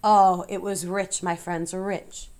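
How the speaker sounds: gloating rat. Acted. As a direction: relish every rotten bite. Templeton gloats over feast.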